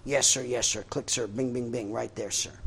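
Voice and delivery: crisp military yes sir; barked sir yes sir. Retold or imitated. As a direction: snap back like an eager junior officer. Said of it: "would say".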